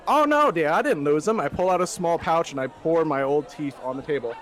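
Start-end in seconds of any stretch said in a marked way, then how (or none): 0.1-1.4 much higher, louder prim voice; a high, loud fussy gentleman; genteel old gent. Acted. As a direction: reassure her primly, pitched way up. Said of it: "I'm just like".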